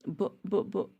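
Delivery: softly repeating the first sound, stuck; quiet mock stammer of a shy girl. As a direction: stammer shyly. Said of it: "she began to stammer".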